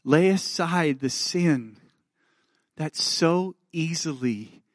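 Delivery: tender slow reading. Acted. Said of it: "I have to do this".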